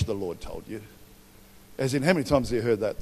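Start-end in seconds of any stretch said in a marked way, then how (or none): 0.0-0.8 scoffing quote. Retold or imitated.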